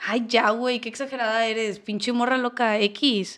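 loud, scornful brush-off; dismissive friend, acted. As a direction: laugh off her complaint loudly. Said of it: "vamos a actuarlo". (amiga burlona que minimiza, en voz alta)

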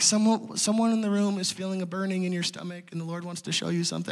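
hushed, soft imitation of a leader; softly voiced group leader. Internship leader addressing the room on microphone, softly imitated.

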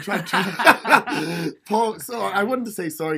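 stuffy, blocked nose; sick, nasally voice. Real, not acted. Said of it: "if I sound nasally".

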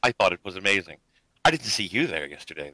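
softly voiced, lightly acted sweetness; a soft, understated sweet smile in the voice; sweetly smiling. Game master answers as Emily about the show, sweetly smiling. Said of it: "she smiles sweetly and she goes".

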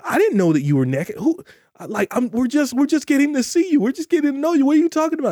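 high, amazed voices, not knowing; astonished crowd. Retold or imitated. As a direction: play stunned people pitching way up, bewildered. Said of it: "They said".

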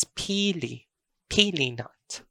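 pili with an open, unstopped final vowel; first pronunciation of pili. Shown as a demonstration. Teacher showing learners the word for pili nut, first pronunciation. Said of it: "The next pronunciation is".

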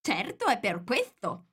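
plain reading voice

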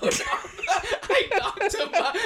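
slow, drawn-out, through real laughter; laughing. Real, not acted. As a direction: savour the punchline while laughing. Repeats punchline, laughing.

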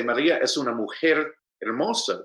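"mujer" carries the emphasis, "hermosa" falls away; stress on MUJER. Shown as a demonstration. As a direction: lean on the noun "mujer". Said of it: "The emphasis is on the noun".

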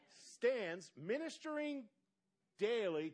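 very slow, deliberate reading of each word. Shown as a demonstration. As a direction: read it out slowly for the church. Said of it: "I'm gonna read this real slow".

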